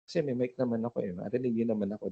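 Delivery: soft, low and quick, unprojected; relying on mic. Shown as a demonstration. Speaker shows the wrong way to use a mic, unprojected. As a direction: let the mic do all the work. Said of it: "Hindi ganun. Huwag nyo mong iasa sa mic".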